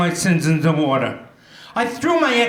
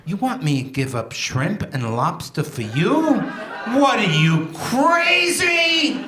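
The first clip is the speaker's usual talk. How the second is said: mock-outraged spouse, laughing; indignant wife; slower than usual. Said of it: "My wife of twenty-seven years said to me".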